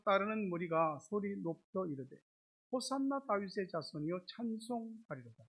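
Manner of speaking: measured, formal Bible reading aloud; steady recitation of scripture. Acted. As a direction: read the passage out to a congregation. Reads scripture aloud to congregation.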